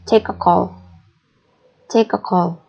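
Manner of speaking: one breath, lean on take; stress on take. Shown as a demonstration. Teacher showing the stressed verb, stress on take. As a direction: TAKE stressed, a call blended after it. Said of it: "So when you read it".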